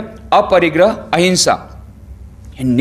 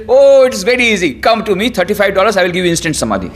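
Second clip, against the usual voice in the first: mocking modern guru; 5 semitones higher, faster than usual. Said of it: "The modern guru says".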